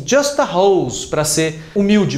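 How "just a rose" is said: put-on humble girlfriend. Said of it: "Ela falou assim".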